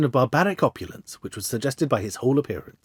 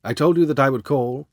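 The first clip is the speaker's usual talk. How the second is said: lightly voiced German accent; a hint of a German nobleman's accent. A narrator's reading. Masked visitor asks about his note, light German accent. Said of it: "with a deep, harsh voice and a strongly marked German accent".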